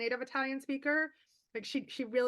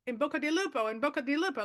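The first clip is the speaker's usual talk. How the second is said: Italian phrase; 3 semitones higher, faster than usual. Retold or imitated. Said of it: "they keep saying".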